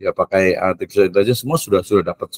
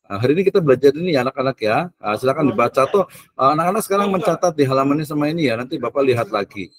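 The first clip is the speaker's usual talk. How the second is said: hurried teacher; 4 semitones higher, faster than usual. Retold or imitated. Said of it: "guru datang, kemudian mengatakan".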